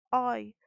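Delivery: oi isolated, loud and open; a firm, open oi; stressed syllable singled out. Shown as a demonstration. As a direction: punch out oi as the strong syllable. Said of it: "é a última sílaba".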